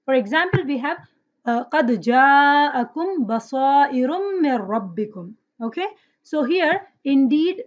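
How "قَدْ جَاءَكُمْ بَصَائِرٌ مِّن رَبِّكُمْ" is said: quick, flowing recitation of the verse; Quran recitation. Shown as a demonstration. Teacher reciting a verse for students, rapid melodic recitation. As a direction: recite the ayah smoothly for the class.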